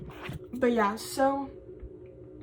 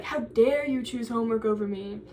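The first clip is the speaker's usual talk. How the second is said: laughing mock outrage. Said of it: "she's like".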